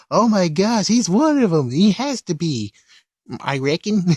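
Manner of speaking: high excited exclamations; excited old man. Retold or imitated. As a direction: gush like a starstruck onlooker. Old man voiced in recap.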